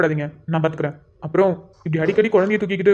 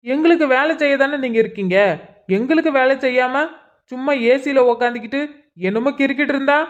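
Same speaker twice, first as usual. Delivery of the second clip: higher, raised voice berating the police; angry shouting; 3 semitones higher than usual. Acted. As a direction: vent fury at the idle officers. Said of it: "உள்ள வந்து கத்திட்டு இருக்க". (கோபத்தில் கத்துதல்)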